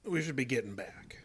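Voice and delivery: nervous whisper. Acted. Nervous man at haunted cabin.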